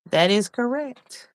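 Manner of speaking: announcing correct. Shown as a demonstration. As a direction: proclaim it like a quiz host.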